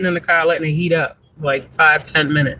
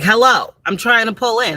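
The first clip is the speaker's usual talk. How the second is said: mother's hello; 5 semitones higher than usual. Retold or imitated. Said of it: "she's like".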